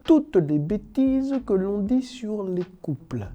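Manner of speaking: pompous dictator proclamation voice; ranting dictator speech. Acted. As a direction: declaim like a strongman addressing the nation. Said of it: "j'ai pris ma voix de dictateur africain".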